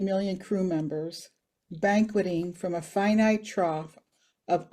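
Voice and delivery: measured poem recital with pauses between lines; deliberate recital, quieting to a hushed close; poetry reading. Acted. Reads own poem aloud.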